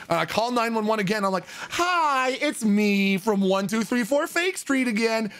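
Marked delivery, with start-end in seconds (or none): 1.7-5.3 awkward repeat caller. Retold or imitated. Sheepish repeat call to emergency line.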